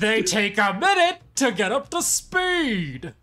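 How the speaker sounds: high, slow, drawn-out call; shouting back. Acted. Crew explains the ship's speed, shouting back. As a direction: holler it back word by word.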